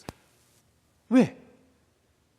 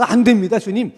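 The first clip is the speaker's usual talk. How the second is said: protesting; 6 dB louder than usual. Retold or imitated. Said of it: "이렇게 말리는 제자".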